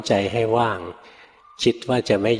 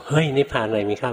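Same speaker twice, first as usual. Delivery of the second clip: a hint of a higher sharp rebuke; the master's second rebuke, lightly scolding; retold scold; 5 semitones higher than usual. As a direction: mildly imitate the master snapping. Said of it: "โดนท่านตวาดครั้งที่สอง".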